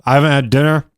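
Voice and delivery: chewing while talking; messy loud eating. Real, not acted. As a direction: mouth full of chicken. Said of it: "talking with my mouth full".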